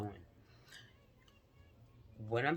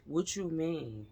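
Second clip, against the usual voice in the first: slow, higher, louder indignant quote; mock outrage; 5 semitones higher, 6 dB louder, slower than usual. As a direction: play up the outrage, drawn out. Friend retold, demanding outrage.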